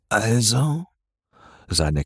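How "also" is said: "Also?" with a sharp rising question tune; impatient questioning "Also?". Acted. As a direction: demand an answer with "Also?". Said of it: "mit tiefer, kehliger Stimme". (fragendes, forderndes "Also?")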